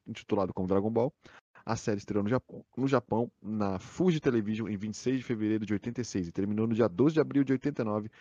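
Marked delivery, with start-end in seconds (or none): 1.7-8.1 hiccuping through the words; speaking with the hiccups. Real, not acted. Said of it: "estou com soluço".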